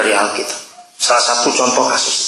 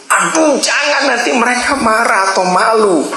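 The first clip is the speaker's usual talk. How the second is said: frightened pleading; 10 semitones higher than usual. Retold or imitated. Child begging the pastor not to tell her parents, high and anxious.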